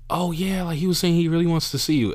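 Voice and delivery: high-pitched mock mom voice; imitating mom. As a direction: pitch it up as mom relaying news. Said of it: "And she's like".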